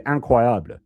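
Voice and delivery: "incroyable" said as French, weight on the third syllable; French pronunciation. Shown as a demonstration. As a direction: demonstrate an-crwa-YABL in French. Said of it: "the stress is on the third accent".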